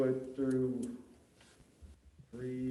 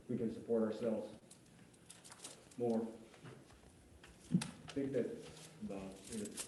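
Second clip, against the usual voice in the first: short of breath; 2 semitones lower, 6 dB quieter than usual. Real, not acted. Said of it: "I'm just kinda short of breath and hoarse".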